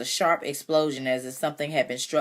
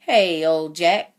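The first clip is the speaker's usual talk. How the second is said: slow, louder hello to an animal; drawn-out greeting; 3 semitones higher, 7 dB louder, much slower than usual. A narrator's reading. Cassie greets the mule while patting him, slow drawn-out call. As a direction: stretch out a fond greeting.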